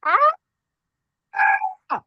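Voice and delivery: short imitated screech; imitated owl cry. Storyteller mimicking a noise from the woods, imitated animal cry. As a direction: mimic a cry heard at night. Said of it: "and then we hear".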